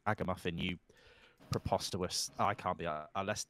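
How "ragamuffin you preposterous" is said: mock posh English insult. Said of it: "I think I'm being more English now".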